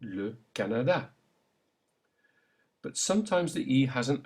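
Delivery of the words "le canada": le Canada in French; French plain E. Shown as a demonstration. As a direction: model the le. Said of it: "Try it".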